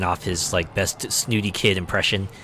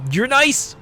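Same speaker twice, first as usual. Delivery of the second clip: much higher squeaky compliment; awkward compliment. Retold or imitated. New member to the hero, high timid voice. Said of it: "He goes".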